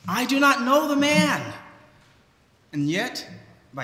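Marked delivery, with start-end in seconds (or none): 0.1-1.5 higher, fast frightened denial; Peter's denial. Retold or imitated. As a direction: blurt it out to deny him. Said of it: "he says".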